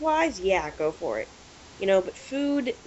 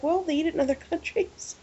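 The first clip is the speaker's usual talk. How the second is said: higher, laughing through the excuse; laughing defensively; 8 semitones higher than usual. Retold or imitated. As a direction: giggle while making the weak excuse. Own retold reply, laughing.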